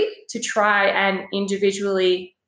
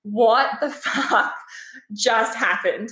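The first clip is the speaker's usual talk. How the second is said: laughing disbelief; slower than usual. Retold or imitated. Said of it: "I was just uncontrollably laughing".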